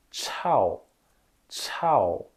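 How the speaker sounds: tchau with a puff of air, tongue curled back; Mandarin chao. Shown as a demonstration. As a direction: breathe out on tchau.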